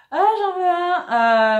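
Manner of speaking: high squeaky penguin toy voice; squawky bouncy penguin. Pretend. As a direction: make the penguin plush beg, squeaky and slow. Penguin voice repeated.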